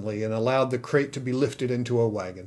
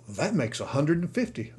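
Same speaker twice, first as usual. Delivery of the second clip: calculating; 3 semitones higher than usual. Acted. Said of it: "the saloon keeper calculated".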